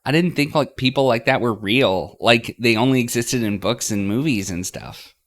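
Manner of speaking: high, loud amazed rant; incredulous. Acted. Girl marvels to her friend that Linda is real. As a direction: gush in disbelief.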